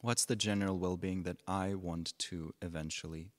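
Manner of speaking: measured phrases with long pauses between; unhurried meditation teacher, pausing often; guided meditation. Real, not acted. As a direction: guide them gently into stillness, leaving space after each phrase.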